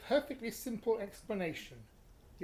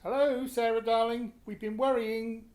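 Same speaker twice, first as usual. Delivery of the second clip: relieved greeting; 7 dB louder than usual. Acted. Father greets daughter with relief.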